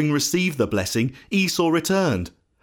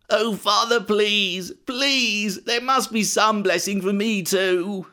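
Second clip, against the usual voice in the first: high-pitched, desperate pleading; acted tearful plea; crying bitterly; 6 semitones higher, slower than usual. A narrator's reading. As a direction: beg as if in tears, pitch held up. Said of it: "crying bitterly".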